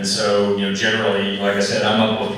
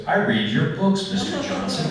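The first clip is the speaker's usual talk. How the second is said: slow, higher, drawn-out lawman voice that leaves you guessing; a highway patrolman pausing over the license, slow and loaded; ominous patrolman; 11 semitones higher than usual. Retold or imitated. Patrolman to a speeding author, slow and ominous.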